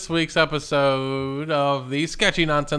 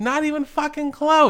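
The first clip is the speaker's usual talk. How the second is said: trash talk shout; 10 semitones higher, 4 dB louder than usual. Acted. Heated wrestling trash talk.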